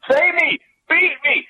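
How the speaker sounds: high, loud taunting game voice; the game calls out to you. Pretend.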